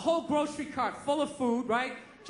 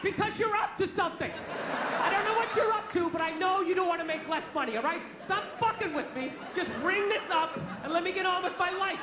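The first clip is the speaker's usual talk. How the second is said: higher, laughing suspicious rant; mock exasperated; 4 semitones higher than usual. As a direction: accuse the clerk with a grin. Comic arguing with clerk.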